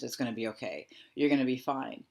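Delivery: firm, dismissive comfort; forceful reassurance. Shown as a demonstration. Coach shows forceful comfort clashing with vulnerability. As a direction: override the fear. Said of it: "this forcefulness".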